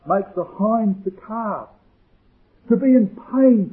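usual speaking voice

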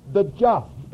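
"just" hit high and firmly; underscored key word. Shown as a demonstration. Preacher underscoring Galatians' cardinal word, stress on JUST. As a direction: land hard on "just". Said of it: "Paul underscores every cardinal word".

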